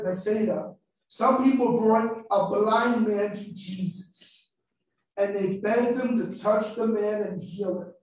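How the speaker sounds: slow, solemn reading of the passage; scripture reading. Acted. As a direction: read the verses out slowly and weightily. Reads scripture aloud.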